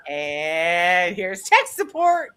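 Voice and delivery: slow, smug help-desk greeting; tech support voice. Retold or imitated. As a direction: drawl it like a cheerful help desk. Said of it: "he answers in tech support voice".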